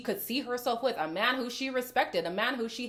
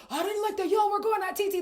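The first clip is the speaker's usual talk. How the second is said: higher, quicker defensive mock voice; imitating Casey; 10 semitones higher, 3 dB louder, faster than usual. Imitating Casey defending T T, defensive mock voice. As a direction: play him justifying himself. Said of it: "he's like".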